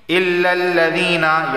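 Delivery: illallazeena with a long chanted ee; madd on zee. Shown as a demonstration. Teacher modelling the rule, chanted long ee in illallazeena. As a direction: stretch the zee one alif long. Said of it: "एक अलिफ के बराबर खींचकर".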